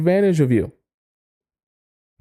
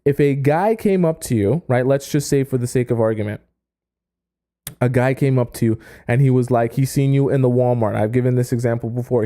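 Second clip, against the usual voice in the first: normal talking voice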